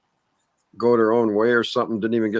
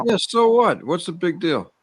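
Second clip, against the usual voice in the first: defiant; 8 semitones higher than usual. Real, not acted. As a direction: shrug it off defiantly. Defiant reply in argument.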